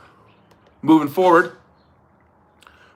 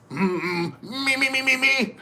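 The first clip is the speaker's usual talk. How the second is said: high-pitched warm-up on "me"; mock vocal warm-up; 11 semitones higher, 5 dB quieter, slower than usual. Clearing the voice before doing a singer, high mock vocal warm-up. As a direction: squeak out a high singer's warm-up.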